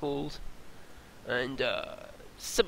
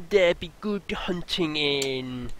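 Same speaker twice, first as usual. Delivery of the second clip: put-on pirate accent; slower than usual. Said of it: "I don't know where this accent's going".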